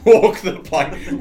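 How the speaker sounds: slow, loud, high pirate call; play-pirate order, drawn out and laughing. Pretend. Crewmate mocking the group as instant pirates, hammed-up pirate shout. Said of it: "We immediately turn into pirates".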